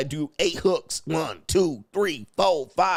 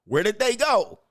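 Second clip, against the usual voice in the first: higher-pitched comic disbelief; mock bafflement; 6 semitones higher than usual. Man searching after the bra comes off, baffled. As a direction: ask it high, as if they vanished.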